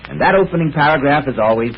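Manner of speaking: smooth, even announcer's opening read; radio announcer read. Acted. Announcer to radio listeners, a smooth program introduction. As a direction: introduce the evening's mystery broadcast.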